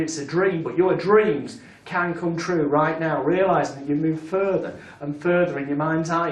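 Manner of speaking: hypnotic induction. Shown as a demonstration. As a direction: talk them gently into the imagined scene.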